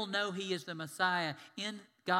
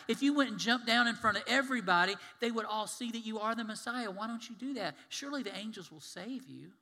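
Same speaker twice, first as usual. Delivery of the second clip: higher, mostly louder devil's persuasion; tempting Satan; 4 semitones higher, 5 dB louder than usual. Acted. Satan urges Jesus to jump from the temple, insistently coaxing. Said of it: "now Satan's quoting Scripture".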